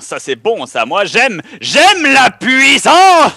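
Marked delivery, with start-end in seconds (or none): 1.6-3.3 slow, loud, drawn-out boast; power-hungry villain. Pretend. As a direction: gloat like a cartoon villain. Joking about power.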